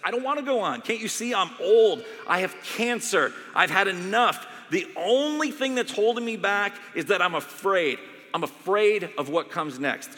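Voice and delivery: loud, high anguished protest; desperate protest. Retold or imitated. Dying doctor snapping at the chaplain in despair. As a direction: push back hard like a dying man.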